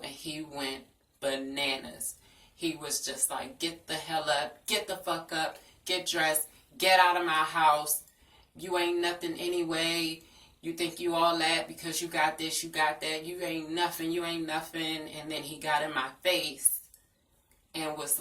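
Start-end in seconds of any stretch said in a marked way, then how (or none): 3.6-15.1 retold angry yelling, building loud; mock furious boyfriend. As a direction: spit out his insults, loud and harsh.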